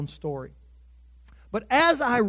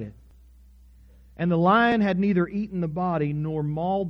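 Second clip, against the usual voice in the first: measured reading with long pauses; scripture reading. A narrator's reading. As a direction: read the passage out solemnly, phrase by phrase. Reads the scripture passage aloud.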